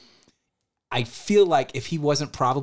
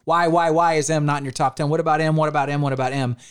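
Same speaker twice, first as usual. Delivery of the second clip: raised pitch, badgering on repeat, then easing off; pestering fans; 3 semitones higher, faster than usual. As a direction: imitate insistent fans, rattling off questions. Voicing fans pestering about the list.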